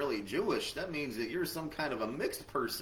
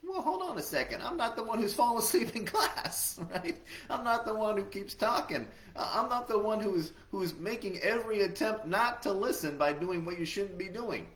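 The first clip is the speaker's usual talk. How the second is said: indignant retort; 6 semitones higher than usual. Retold or imitated. Teacher retorts to rude student.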